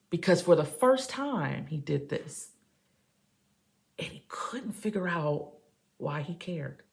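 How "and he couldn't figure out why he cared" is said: hushed whisper, trailing off. Acted. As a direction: breathe it out like a secret. Whispers, then repeats loudly.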